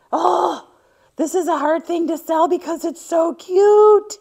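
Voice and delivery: loud, high gushing squeal; gushing over cute. Real, not acted. To her viewers, over a cat hanky she loves, gushing loud and high. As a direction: squeal with delight over something adorable.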